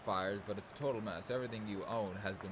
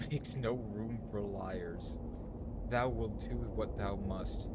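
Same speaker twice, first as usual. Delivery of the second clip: hammed-up mock Shakespearean tree talk; archaic fairy-tale voices; slower than usual. Voicing the woodcutter and tree in archaic speech. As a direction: play both woodcutter and trees in old speech. Voicing trees in a dream quest.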